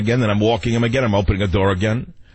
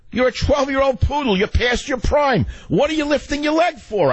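higher and higher, up to a hammed-up shout at the dog; mock angry scolding; 11 semitones higher than usual. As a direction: rant at the old poodle, building to yelling.

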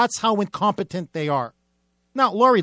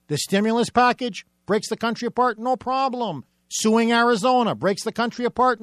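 sarcastic refrain; 3 semitones higher than usual. Shown as a demonstration. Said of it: "repeated sarcastic refrain".

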